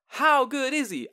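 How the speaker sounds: high, slow congregant's holler; hammed-up, drawn-out call-out; retold scream. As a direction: imitate a shout from the pews. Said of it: "Someone screams out".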